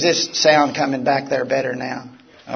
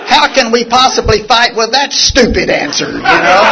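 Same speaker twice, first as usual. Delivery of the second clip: real laughter, higher and louder; amused and laughing while telling the story to the room; 8 semitones higher, 9 dB louder than usual. Real, not acted. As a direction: laugh through the words in disbelief. Laughing at his own story.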